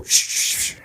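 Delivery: unvoiced hushing hiss; shushing. Narrator hushing the family under the table, whispered shush. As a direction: hush the room like spotting prey. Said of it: "I go".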